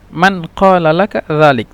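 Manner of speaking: formal Arabic "মান ক্বালা লাকা যালিক", every word separate; standard Arabic. Shown as a demonstration. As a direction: sound the q in "ক্বালা", standard style. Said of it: "তো শুদ্ধ ভাষা".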